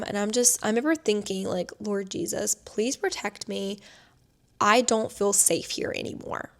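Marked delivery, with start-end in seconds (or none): 1.8-6.5 soft, slow inner plea; whispered prayer. Retold or imitated. Me silently praying to the Lord, soft and pleading. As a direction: pray under your breath for safety.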